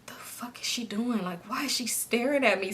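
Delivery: hushed, suspicious aside; mock bewildered whisper. Wondering to herself why Kay stares while driving, hushed. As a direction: whisper it under your breath, baffled.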